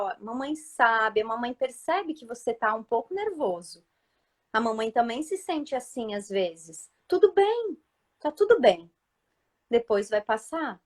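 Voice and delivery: soothing mother. Retold or imitated. Mother comforting upset child.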